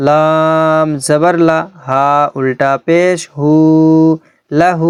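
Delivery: slow joined reading. Shown as a demonstration. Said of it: "চলুন আমরা সেভাবেই পড়ি".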